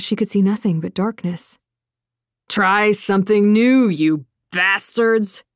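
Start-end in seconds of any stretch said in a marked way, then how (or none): 2.5-5.4 shouting. Acted. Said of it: "Agrippa shouted".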